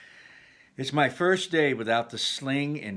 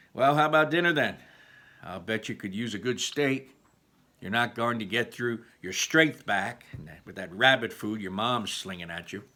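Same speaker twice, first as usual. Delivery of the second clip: pushy dad. Acted. Dad pushing dinner on son.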